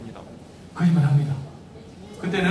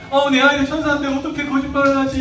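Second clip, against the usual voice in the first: higher mock disbelief; shocked parent; 7 semitones higher, 4 dB louder than usual. Shown as a demonstration. Parent stunned by child's lie, higher mock disbelief. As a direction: gasp it like a stunned mom. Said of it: "이러면 안 된다는 거예요".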